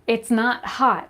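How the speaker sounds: mock dad brushing off the heat; imitating dad. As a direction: drawl it out like an unbothered father. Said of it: "He said".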